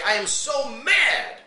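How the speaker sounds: a playful mock of an angry believer; mock angry complaint. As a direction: imitate someone huffing that they're so mad. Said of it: "When you get angry, you say".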